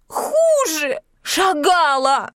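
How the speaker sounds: very high tearful cry. A narrator's reading. Yulka answers her friend through tears, crying out. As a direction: wail the answer.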